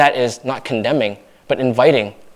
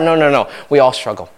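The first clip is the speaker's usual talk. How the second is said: sincere reassurance. Acted. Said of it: "you say genuinely from the bottom of your heart".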